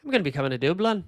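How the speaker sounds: quick, wobbly mock Irish accent; badly faked Irish accent, rattled off; attempted Irish accent. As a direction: try an Irish accent and let it slip. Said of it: "The accent fell apart there".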